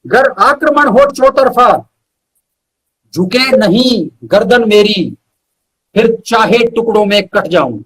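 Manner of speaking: measured verse with pauses between phrases; poem recital. Acted. Poet reciting his own verse to the host, measured poetry recital. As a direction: recite each line slowly and weigh it.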